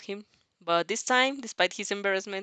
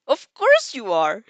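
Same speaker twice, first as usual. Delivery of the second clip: chuckling; 10 dB louder, slower than usual. Acted. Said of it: "you chuckled".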